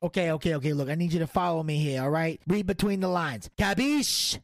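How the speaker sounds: lightly voiced mob boss; the Don. The Don presses his co-host to play along, mobster. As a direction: lean on him like a mobster.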